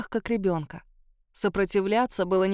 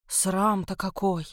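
shocked gasp; slower than usual. Acted. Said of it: "ахнула служанка".

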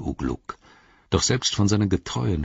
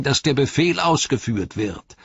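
high-pitched orc voice; defiant high orc reply; Grishnach; 6 semitones higher than usual. Acted. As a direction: insist on it in a high voice. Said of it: "antwortete Grishnach".

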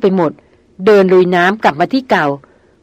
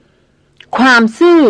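ความซื่อ flung back higher, slow and drawn out, almost shouted; near-shout; 5 semitones higher, 3 dB louder, much slower than usual. A narrator's reading. The hunter throws her word back at her: near-shout. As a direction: hurl ความซื่อ back in disbelief, nearly yelling. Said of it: "ร้องออกมาเกือบเป็นตะโกน".

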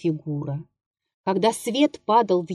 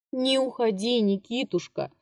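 much softer, pleading murmur; delirious mumble; 3 semitones higher, 7 dB quieter than usual. A narrator's reading. Old actor clinging to the prompter's hand, delirious murmur. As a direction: mumble as if in a fever. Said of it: "бормотал он, как в бреду".

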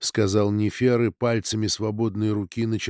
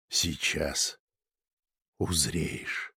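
much lower, slow and ominous; deep eerie voice; 8 semitones lower, 9 dB quieter, much slower than usual. Acted. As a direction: speak low like a mystic. Nefer speaks low and eerie.

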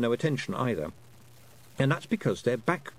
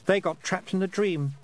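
flat; 8 semitones higher than usual. A narrator's reading. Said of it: "said Roland flatly".

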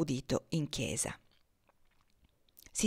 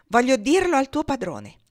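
high, loud scolding shout; 7 semitones higher, 9 dB louder than usual. Acted. Miss Ophelia dragging Topsy to her master, shouting high and loud. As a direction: yank the girl forward with your voice. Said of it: "gridava ella".

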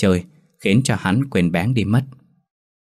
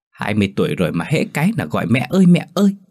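mocking whine; 3 semitones higher, faster than usual. Bạn chế nhạo gọi mẹ.

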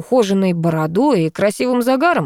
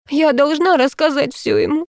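стон; 9 semitones higher than usual. A narrator's reading. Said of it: "простонала она".

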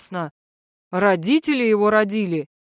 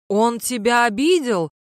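thundering yell; 3 semitones higher than usual. Acted. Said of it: "громогласно завопил кто-то".

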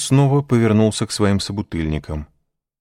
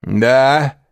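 high, loud tipsy interjection; drunken chime-in; 8 semitones higher, 7 dB louder than usual. A narrator's reading. Caderousse eagerly joins in, tipsy and loud. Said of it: "подхватил Кадрус".

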